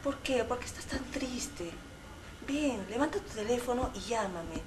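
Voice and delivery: a hint of a seductive radio host; sensual voice. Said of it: "Más devoradora". (voz sensual y devoradora)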